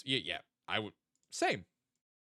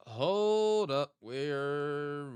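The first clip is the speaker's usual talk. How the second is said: higher, louder sudden "Hold up" with a long "hold"; surprised; 5 semitones higher, 6 dB louder, much slower than usual. Real, not acted. Streamer suddenly recognizing the map spot, surprised. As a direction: stop everything, you just spotted something. Realizing the location in game.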